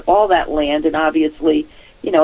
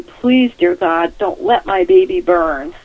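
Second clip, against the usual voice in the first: higher, pleading prayer to heaven; desperate prayer; 10 semitones higher, slower than usual. Retold or imitated.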